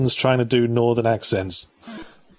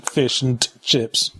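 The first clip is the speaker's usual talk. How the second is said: slow, hammed-up North of England accent; lightly voiced northern lad; northern English, a touch overdone; mock northern English accent. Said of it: "the northern accent".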